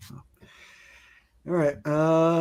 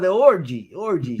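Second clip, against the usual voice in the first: Italian accent; 4 semitones higher, 3 dB louder than usual. Shown as a demonstration. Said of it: "I can do a terrible Italian accent too".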